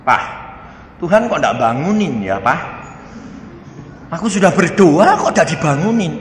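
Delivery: omelan anak dengan nada naik; mengomel. Retold or imitated. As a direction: tirukan anak merengut protes kepada papanya. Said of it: "Setelah itu dia ngomel". (keluhan anak yang ditirukan)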